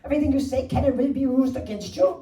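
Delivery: put-on Irish accent, officious and rude; rude Irish-accented agent. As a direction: play a rude call-centre clerk with an Irish accent. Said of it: "rude voice going".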